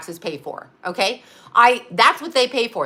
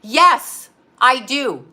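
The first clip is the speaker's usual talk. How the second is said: emphatic yes; 5 dB louder, much slower than usual. Real, not acted. Defiant answer to mother.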